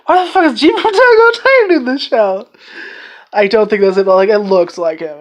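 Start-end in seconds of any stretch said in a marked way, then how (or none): 0.1-2.5 very high, stunned "What?"; shocked disbelief. Retold or imitated. After rewinding the opening, shocked to spot Gene. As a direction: do a double take in utter disbelief. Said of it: "Pause, rewind".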